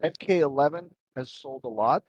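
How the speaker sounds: muffled and distant over a bad mic; underwater mic. Real, not acted. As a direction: voice like it's coming through water. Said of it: "sounds like you're underwater".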